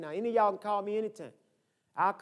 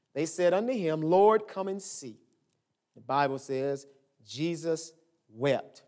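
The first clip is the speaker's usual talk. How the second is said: slow, measured Bible reading; scripture reading; 2 semitones lower, slower than usual. Real, not acted. Pastor reads John eleven to the congregation, solemn scripture reading. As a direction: read the verses out slowly, phrase by phrase.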